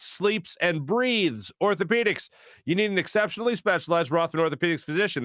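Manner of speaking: brisk, punchy sponsor read; radio ad read. Real, not acted. Host pitching sponsors to listeners, polished ad read. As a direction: sell it like a sports radio host.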